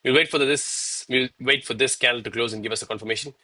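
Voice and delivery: winded, catching breath between words. Real, not acted. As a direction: talk while still panting from push-ups. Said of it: "Sorry, I'm winded right now".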